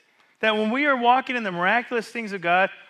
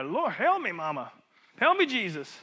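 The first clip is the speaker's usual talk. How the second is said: mock Madea cry; 3 semitones higher than usual. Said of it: "just screaming out like her".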